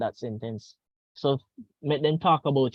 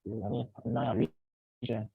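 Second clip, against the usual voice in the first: breaking up audio; 6 dB quieter, much slower than usual. Real, not acted. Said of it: "Yeah, you're breaking up".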